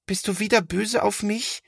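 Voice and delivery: high, small sheepish voice; high, remorseful little brother voice; contrite little boy. A narrator's reading. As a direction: ask timidly, hoping to be forgiven. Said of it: "fragt Linus zerknirscht".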